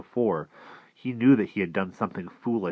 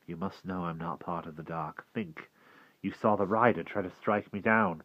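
gentle coaxing; 4 dB quieter than usual. Acted. Will reassuring the frightened walker, gentle and soft. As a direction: coax him to trust you. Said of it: "he said gently".

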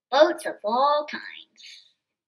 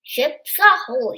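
sailor's call; 6 dB louder, slower than usual. Pretend. Calling out like a sailor.

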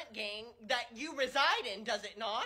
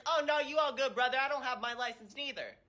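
put-on casual teen coworker; 4 semitones higher than usual. Coworker voiced in the story.

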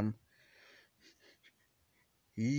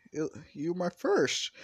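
breathy whispered confession; 8 semitones higher than usual. Acted. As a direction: whisper it like a secret. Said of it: "It's like".

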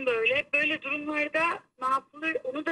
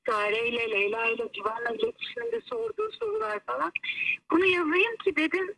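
over the phone. Real, not acted. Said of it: "hoparlöre aldım seni".

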